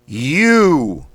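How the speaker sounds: You punched out high and loud in one breath; thrust out sharply. Shown as a demonstration. Coach drilling warm-up, sharp loud thrust-out You. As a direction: dump all the air on You. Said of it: "Thrust out quickly, sharply".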